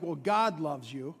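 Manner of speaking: grudging. Shown as a demonstration. Pastor mocking a grudging blessing to a sister, grudging. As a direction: say it like you barely mean it. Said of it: "You might want to say it like".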